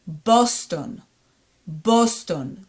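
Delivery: Boston with round O in both syllables; Hebrew pronunciation. Shown as a demonstration. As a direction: say "Boston" the Hebrew way, BOS-TON. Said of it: "In Hebrew, we say Boston".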